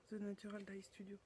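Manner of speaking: brand name in English with a strong French accent. Real, not acted. Reading a yarn brand name to viewers, in French-accented English. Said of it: "Avec mon accent qui tue".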